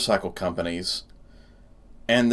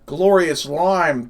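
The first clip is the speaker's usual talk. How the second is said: savouring; 5 semitones higher, 3 dB louder, much slower than usual. Real, not acted. Relief at getting lime flavour.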